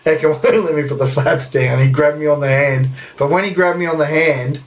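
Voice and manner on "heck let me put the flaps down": fighting back laughter on the quote; words breaking into a laugh; trying not to crack up while retelling it. Retold or imitated. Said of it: "I'll struggle not to laugh now".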